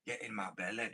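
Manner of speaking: jokey Scottish accent; mock Scottish movie-character catchphrase. Shown as a demonstration. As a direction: put on a comic Scottish brogue. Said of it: "of a Scottish accent".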